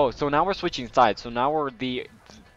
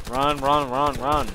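urgent shout; 3 semitones higher, 6 dB louder, slower than usual. Real, not acted. Urging to run.

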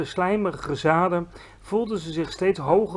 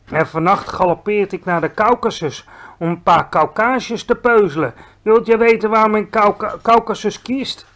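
loud gloating giant voice; boasting giant; 4 semitones higher, 6 dB louder than usual. A narrator's reading. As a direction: brag about tonight's meal. Bloodbottler boasting. (opschepperige reus, luid)

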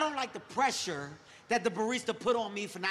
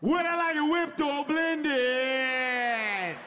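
nervous repeating; 4 semitones higher, much slower than usual. Retold or imitated. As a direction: drag the question out in a panic. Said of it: "when I get nervous, I just repeat shit".

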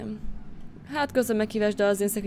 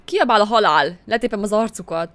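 mock battle cry; 7 dB louder than usual. Inner rage at the drunk men.

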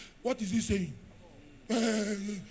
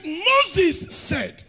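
loud, proud retort of the scribes; mock scribes' boast; 6 semitones higher, 9 dB louder than usual. Scribes boasting to Jesus, loud. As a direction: throw it out like a smug scholar. Scribes quoting Moses, acted.

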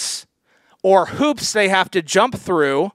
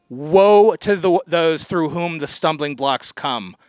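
solemn warning; slower than usual. Retold or imitated. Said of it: "Jesus Christ has said".

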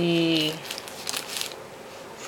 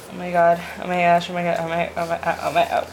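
awkward joy; faster than usual. Real, not acted. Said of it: "I'm just so happy".

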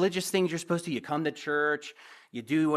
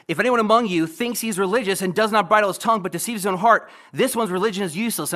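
forceful scripture reading; 3 semitones higher, 5 dB louder than usual. Acted. Preacher to his church, loud forceful scripture reading. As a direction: read out loud and pressing, building to a fast finish.

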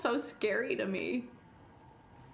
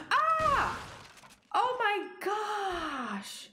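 1 startled cry; 5 semitones higher, much slower than usual. Real, not acted. Scare mid sentence.

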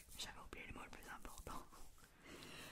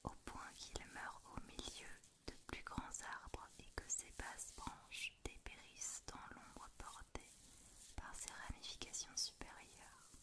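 whispered reading. Acted. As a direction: read it gently, barely voiced. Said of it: "je vais te faire une petite lecture chuchotée".

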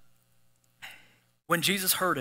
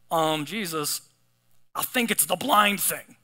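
sarcastic; slower than usual. Pretend. Sarcastic imagined reply.

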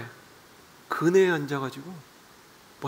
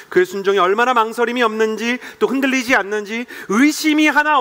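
rising, louder preaching climax; fervent preaching; 7 semitones higher, 6 dB louder than usual. Acted. Pastor preaching Abraham's obedience, rising and fervent. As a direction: drive the point home with fervour.

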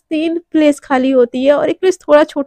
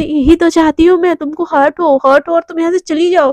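louder, snapping back in irritation; sharp retort; 3 semitones higher, 4 dB louder than usual. Acted. Devika snapping at Radhika to leave her alone, louder. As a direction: cut her off, make it sting.

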